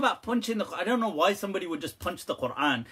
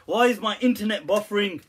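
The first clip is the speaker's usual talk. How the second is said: mock complaint; 4 semitones higher, 4 dB louder than usual. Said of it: "he's like".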